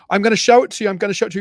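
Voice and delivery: loud, high taunting; hammed-up playful menace; teasing threat. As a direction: dangle it in front of him. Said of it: "I was like".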